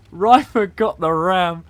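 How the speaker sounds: loud, high, drawn-out cheer; overexcited commentator, loud and slow; excited shout. Real, not acted. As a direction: shout the big play between bursts of laughter. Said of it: "I'm getting so excited".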